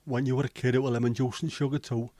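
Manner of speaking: a hint of Yorkshire accent slipping in; slight Yorkshire accent. Real, not acted. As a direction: let a touch of Yorkshire accent creep in. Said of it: "Don't know why I said that with a, a slightly Yorkshire accent".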